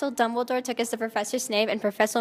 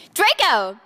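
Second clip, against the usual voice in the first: shouted; 3 semitones higher, 5 dB louder than usual. Acted. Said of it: "I shouted".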